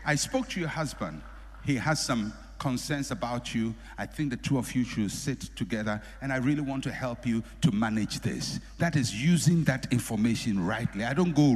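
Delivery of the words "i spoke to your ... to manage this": gentle counsel. Shown as a demonstration. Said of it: "So I can say".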